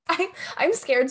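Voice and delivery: high, nervous outburst; scared, nervous laughing. Real, not acted. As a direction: blurt it out, spooked and giggly. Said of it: "That's why I'm laughing".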